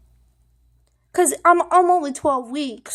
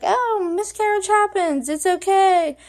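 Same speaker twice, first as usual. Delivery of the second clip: lightly acted comfort, pitched higher; a touch of higher-pitched, soothing reassurance; reassuring; 5 semitones higher than usual. Vlogger comforting women after miscarriage, lightly acted reassurance. Voicing the intended comforting message.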